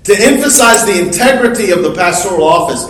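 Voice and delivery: fast, light repeat of the same phrase; quick restatement. Real, not acted. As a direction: run through it quickly as a recap. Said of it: "and even more importantly".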